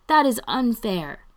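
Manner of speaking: high, loud complaint; calling out. A narrator's reading. Ian objects to being shut out, calling out. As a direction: protest loudly so they hear it. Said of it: "Ian calls out".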